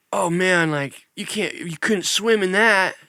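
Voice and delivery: lightly voiced Zac Efron playing food guru, slow on the last line; a hint of a dreamy celebrity musing; Zac Efron as Bourdain. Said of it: "Zac Efron trying to be Anthony Bourdain".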